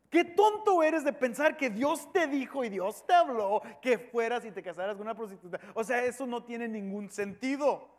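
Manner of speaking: mildly scornful disbelief; mocking crowd. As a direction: ridicule the prophet as a scoffer would. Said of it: "se estaban riendo, burlándose". (burla con leve desprecio)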